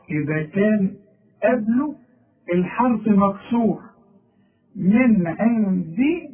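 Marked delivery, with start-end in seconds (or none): 4.7-6.3 slow "من عندي" with a crisp dal; clear dal. Shown as a demonstration. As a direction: land the dal clearly with kasra. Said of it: "الدال دي هي مكسورة".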